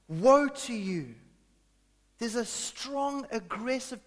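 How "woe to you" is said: slow, louder, near-shouted warning; almost shouting. Retold or imitated. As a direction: lean in and nearly shout it. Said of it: "he almost shouts".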